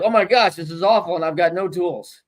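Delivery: mock distress. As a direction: imitate a stressed friend fretting. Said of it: "this group over here who's like".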